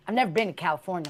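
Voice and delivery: lightly hammed-up Southern twang, quick; mock Southern accent, barely there; bad Southern twang. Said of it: "I'm gonna do a bad accent".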